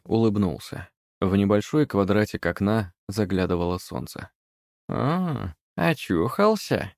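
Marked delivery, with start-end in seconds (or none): 4.9-6.9 high, slow, grumpy crone voice; a cranky old hag waking someone; grumbling Baba Yaga voice; grumbling old witch. A narrator's reading. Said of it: "проворчала куда-то в сторону".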